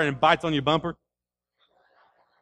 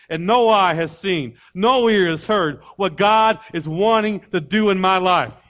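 preaching; 3 semitones higher, 6 dB louder than usual. Real, not acted. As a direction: declare it with measured conviction. Preaching declaration to flesh.

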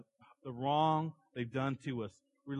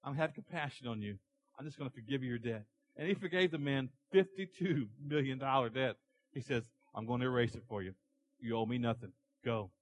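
merciful king. Acted. King mercifully forgives the servant.

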